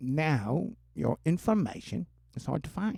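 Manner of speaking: put-on Cockney accent. Voicing his own imaginary co-host, now made Cockney: Spancy in Cockney accent. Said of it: "Now I'll make him British or Cockney".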